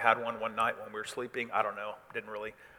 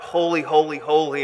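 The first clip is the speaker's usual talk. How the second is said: raised, louder angelic call; 4 semitones higher, 8 dB louder than usual. Acted. Angel in the presence of God, calling out in worship. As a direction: call out each word in praise. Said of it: "is calling out".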